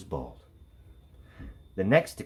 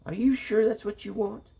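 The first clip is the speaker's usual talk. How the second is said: much higher, doubtful mother; doubtful mom; 13 semitones higher than usual. A narrator's reading. Mother doubting Stephanie's choice, high and questioning. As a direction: mom unsure about the plan. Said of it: "said her mom".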